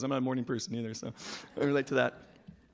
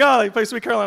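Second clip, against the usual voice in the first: mock dread; 9 semitones higher, 11 dB louder than usual. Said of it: "I'm like".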